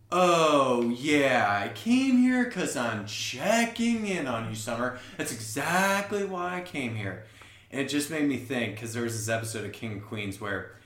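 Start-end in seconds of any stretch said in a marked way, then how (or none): 0.1-7.2 a raised, slowed, innocent Doug voice; imitating Doug. Telling the podcast cohost how Doug acts innocent, raised innocent voice. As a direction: play Doug pretending he came to check in, drawn out and higher. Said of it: "And he's like".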